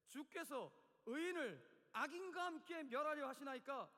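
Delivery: slow, drawn-out solemn challenge; dramatic scripture reading. Acted. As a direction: read scripture as an impassioned protest. Reads Abraham's plea from scripture. (힘주어 느리게 성경 낭독)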